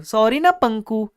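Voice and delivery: slow, sweet sing-song plea; cutesy pleading. Retold or imitated. Customer cutely coaxing the shopkeeper, slow and sweet. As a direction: stretch it out coyly. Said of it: "ऐसा बोला मैंने".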